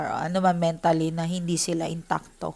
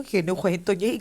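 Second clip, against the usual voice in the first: ordinary delivery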